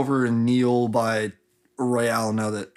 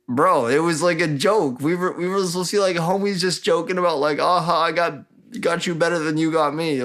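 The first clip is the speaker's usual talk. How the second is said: mock protest; 6 semitones higher than usual. Retold character protests it was joking.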